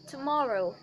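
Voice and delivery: RP "Tomorrow" with rounded British vowels; RP accent. Shown as a demonstration. Teacher showing how it should sound, RP accent. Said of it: "in R P, it should sound like this".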